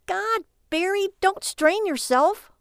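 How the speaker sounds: slow, high, mocking drawl; mock him with slow scorn; sarcastic. A narrator's reading. Lily mocks her husband.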